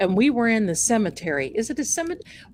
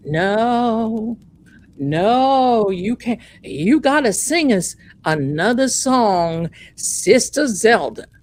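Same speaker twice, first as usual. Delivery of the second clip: loud, drawn-out Southern pleading; mock Southern pastor; 5 dB louder, slower than usual. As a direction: beg her to stay in a hammed-up Southern voice. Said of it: "he's got this Southern accent".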